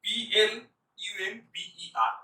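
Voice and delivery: letters spelled one by one, P L U M B E R. Shown as a demonstration. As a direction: read "পি এল ইউ এম বি ই আর" letter by letter, evenly. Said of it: "মনে মনে উচ্চারণটা শুনুন".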